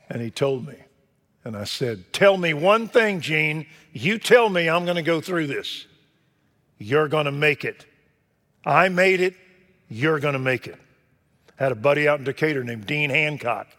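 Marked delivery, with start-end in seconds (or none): 2.1-10.8 high, loud pleading; urgent plea. Retold or imitated. Desperate man begs his elder, loud and high. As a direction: beg him for the promise.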